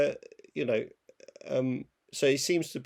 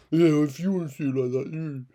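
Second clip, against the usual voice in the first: mock Austrian director, louder; Austrian accent; 2 semitones higher, 4 dB louder than usual. Critic mocks director refusing to discuss his film, Austrian accent. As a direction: imitate a dismissive Austrian filmmaker. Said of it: "a hell of an Austrian accent".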